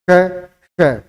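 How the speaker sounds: "श" as a hissed sh, tongue curled inward; isolated "श" with light hissing friction; pronunciation demo. Shown as a demonstration. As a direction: sound out "श" alone, breath rubbing along the palate. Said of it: "जैसे मैं उच्चारित करता हूँ".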